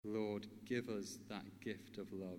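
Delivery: measured, earnest prayer with long pauses. Real, not acted. Speaker leads listeners in asking God for love, prayerful. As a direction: pray simply and unhurriedly.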